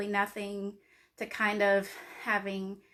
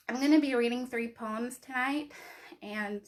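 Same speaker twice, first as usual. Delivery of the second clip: nervous, trembling voice; shaky voice; 2 semitones higher than usual. Real, not acted. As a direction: voice shaking with nerves. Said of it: "sorry my va-, voice is shaking".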